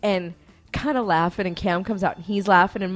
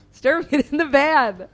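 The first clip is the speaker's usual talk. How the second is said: loud, high, drawn-out retold call; impatient order; 6 semitones higher, 6 dB louder, slower than usual. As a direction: holler for a dawdler, imitating him. He orders her into van.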